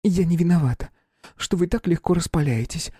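high, tense, near-shouting; holding back a shout. A narrator's reading. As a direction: bite back the urge to yell. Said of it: "едва сдерживая крик". (сдерживая крик)

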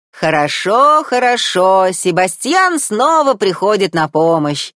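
the crab sweeping in to save the day; bustling crab voice. A narrator's reading. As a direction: Sebastian announcing his rescue. Crab Sebastian arrives.

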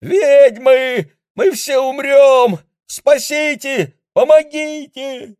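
визгливый, очень высокий громкий вопль; завопи в панике. A narrator's reading. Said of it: "крича на весь лес". (Линь вопит в панике, визгливо и громко)

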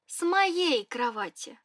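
моей stressed, said slowly. Acted. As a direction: lean on моей, slow and pointed. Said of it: "выделила я".

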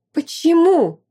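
high, loud indignant why; wife seething at her husband's demand; seething outrage. A narrator's reading. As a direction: boil over with indignation. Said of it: "кипела негодованием женщина".

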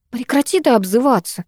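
hurt, indignant exclamation; offended. Acted. Майя protests indignantly at her friend's name-calling. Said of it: "оскорблённо воскликнула я".

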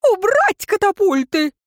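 high, angry command; shouted order. A narrator's reading. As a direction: yell the order across the field. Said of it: "приказал". (громкий яростный приказ)

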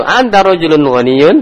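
rising question on ghaniyun; asking tune. Shown as a demonstration. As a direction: make it a real question. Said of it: "kita bertanya kayak gitu".

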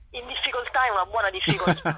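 chuckling at her own joke; laughing. Real, not acted. Joke about challenging themselves. (ridendo leggermente)

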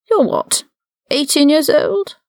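high-pitched, incredulous question; full-voiced. A narrator's reading. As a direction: drop the whisper and challenge him openly. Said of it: "full-voiced, no whispers now".

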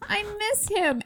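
high-pitched little lovelorn whine; mock sad. Heroine after he dissolves, mock sad. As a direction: pine for him, hammed up. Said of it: "she's so sad".

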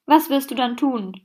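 understated shout, read aloud; mild read-out yell. Acted. Tim challenges Rainer in the fanfiction, mild read-out yell. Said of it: "schrie Tim".

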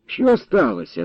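high, yawny question; yawning. A narrator's reading. Sleepy lad answering grandfather's call, yawning. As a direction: ask through a yawn. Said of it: "запозіхав парубок".

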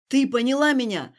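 loud, menacing yell; furious shout. Acted. Stas demanding in fury that Alina understand. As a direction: growl it through rage, loudly.

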